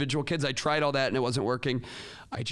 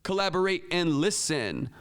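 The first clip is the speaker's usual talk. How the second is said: higher, chanted reply; kids' response; 5 semitones higher, 4 dB louder than usual. Shown as a demonstration. Kids completing the teacher's cue, high chant. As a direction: chant it back as a class. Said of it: "the kids go".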